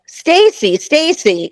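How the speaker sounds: mild mock call of a name; lightly acted calling after someone; imitated calling out. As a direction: hail someone, first call pitched high. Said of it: "calling my name".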